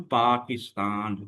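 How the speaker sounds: पाकिस्तान pulled apart into its syllables. Shown as a demonstration. Teacher showing students syllables, पाकिस्तान split into parts. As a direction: say पाकिस्तान slowly in three parts. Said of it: "तो इसमें कितने syllable हैं".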